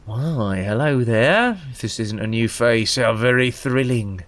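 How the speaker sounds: lightly voiced sultry rogue; sly assassin Anishai. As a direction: tease the stranger like a flirty thief. Streamer voices Anishai NPC.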